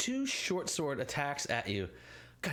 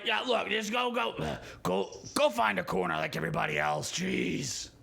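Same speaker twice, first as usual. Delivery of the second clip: guards waving him off; 3 semitones higher than usual. Acted. Guard telling a desperate player to go find a corner. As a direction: shoo him off impatiently.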